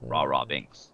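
low zombie groan; zombie noise. Pretend. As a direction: moan it like a zombie. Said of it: "Give me your best zombie noise".

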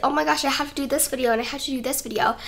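quick, mildly stressed mock complaint; mildly acted stress. Vlogger imagining homework and video deadlines, mildly stressed. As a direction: rattle it off as if under pressure. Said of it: "feel, like, stressed".

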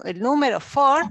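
four said clearly and firmly; four with a careful f; teacher demo of four. Shown as a demonstration. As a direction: model the word four for the class. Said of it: "y el sonido th".

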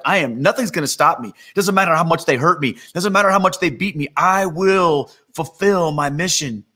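firm declaration, slowing to a deliberate close; resolute, drawing out the mission; steely resolve. Retold or imitated. Preacher voices Jesus facing the cross, steely resolve. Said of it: "set his face like flint".

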